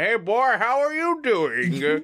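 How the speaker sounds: imitating New York accent. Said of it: "sometimes he's like".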